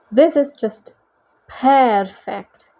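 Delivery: villain savouring the moment, drawn-out; smug Manticore gloat. A narrator's reading. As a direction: gloat with relish. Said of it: "the Manticore gloated".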